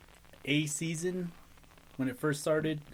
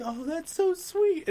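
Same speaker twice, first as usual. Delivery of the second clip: mimicking; slower than usual. Mimicking girl's reply.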